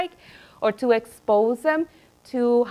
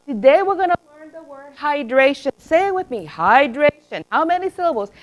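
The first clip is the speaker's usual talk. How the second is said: higher, sing-song mock drill teacher; 4 semitones higher than usual. Teacher mocking a vocabulary drill to kindergarten, sing-song. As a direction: parody the syllable-drill teacher, lightly. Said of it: "It wasn't about".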